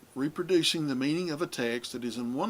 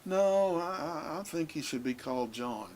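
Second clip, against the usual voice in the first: 'No' jumps up, then a timid, quicker trailing off; a weak, unsure objection; mock hesitant 'No', then mumbled hedging; 4 semitones higher than usual. Shown as a demonstration. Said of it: "it's not just simply".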